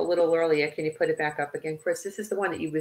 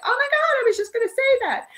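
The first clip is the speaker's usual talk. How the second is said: high, squealing mock amazement; excited surprise; 3 dB louder than usual. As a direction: gasp it out, amazed a teammate said it first. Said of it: "And I'm like".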